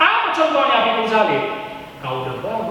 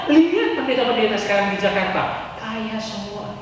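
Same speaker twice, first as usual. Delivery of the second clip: gossipy Jakarta voice; 4 semitones higher than usual. Retold or imitated. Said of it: "stigma pendapat orang di ibu kota".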